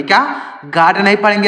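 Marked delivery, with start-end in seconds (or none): 0.7-1.0 गाड with an open aa, like gaad; saying गाड as gaad, the wrong way. Shown as a demonstration. Teacher showing children the wrong way, saying गाड as gaad. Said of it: "इसको गाड नहीं पढ़ेंगे".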